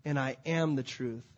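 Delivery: Jesus answering Thomas, calm and low. Acted. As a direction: give the answer gently and low. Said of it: "And Jesus said to him".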